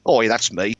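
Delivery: cheeky Ellenberg twang; rough Ellenberg accent. Acted. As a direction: answer back in an unhidden Ellenberg accent. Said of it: "no attempt to hide the Ellenberg in my accent".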